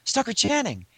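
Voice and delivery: mildly hammed-up starstruck babble; compulsive gushing. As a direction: gush helplessly at your idol. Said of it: "then it kicked in".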